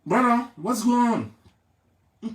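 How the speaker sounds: drawn-out put-on American asking what's up; slow mock American English. Imitating Americans who ask him what's going on, slow mock accent. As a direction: stretch it like a cartoon American. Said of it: "quand on me demande".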